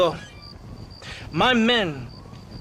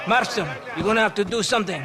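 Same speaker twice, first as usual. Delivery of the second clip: fast, pressing call; urgent; 3 semitones higher, faster than usual. Acted. Officer urgently telling Marston to stop the train. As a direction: push him to act now.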